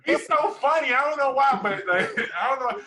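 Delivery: high, loud, giddy gushing; giggly girlfriend voice. Pretend. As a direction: gush over him like a smitten girl.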